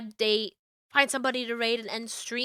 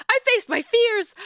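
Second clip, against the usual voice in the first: triumphant; 10 semitones higher, 4 dB louder, slower than usual. Acted. Triumphant declaration.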